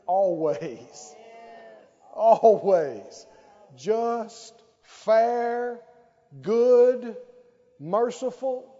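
loud, ringing declaration; emphatic proclamation. Real, not acted. Preacher declares to congregation, loud and emphatic. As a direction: proclaim each word like a drumbeat.

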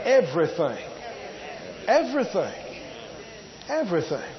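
"Everything" said three times, each falling; hammering repetition. Shown as a demonstration. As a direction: drive the one word home. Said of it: "repeated for emphasis".

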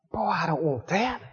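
low, muttered worried complaint; mock gloom. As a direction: sigh it out like a worried patient.

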